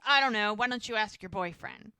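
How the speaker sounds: loud, irritated retort; mildly acted annoyance, loud at the start; pissed off. Man snapping back when she asks what's wrong, mock pissed off. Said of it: "like he is pissed".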